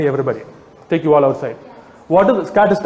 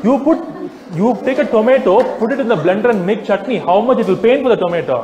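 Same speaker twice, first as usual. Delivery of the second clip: mocking retort; 4 semitones higher than usual. Mocking a meat eater's retort.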